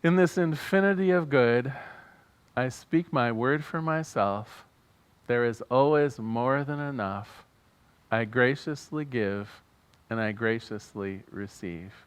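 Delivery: deliberate phrases with pauses; prayerful affirmation. Real, not acted. Minister inviting congregation to repeat after him, prayerful. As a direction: lead an affirmation for others to repeat.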